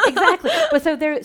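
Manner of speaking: loud laugh into words. Real, not acted. Laughing at the chess joke.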